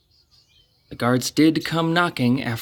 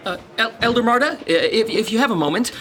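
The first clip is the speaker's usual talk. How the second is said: nervous stammer; 7 semitones higher, faster than usual. Acted. Nervously stopping the elder.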